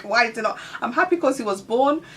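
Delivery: mildly wailed question, pushed loud; retold emotional crying. New mother reliving her baby's birth, a loud touch of crying. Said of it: "emotional crying".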